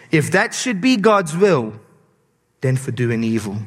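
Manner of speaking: solemn Bible reading; scripture reading. Acted. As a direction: read the passage with weight. Reads scripture aloud.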